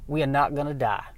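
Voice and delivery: an unhurried, lightly Southern veteran pilot; calm Southern spaceman. Acted. Veteran pilot calming a panicked crewman, in a relaxed light Southern accent. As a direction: settle the kid down with a lazy Southern calm. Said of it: "people with a southern accent".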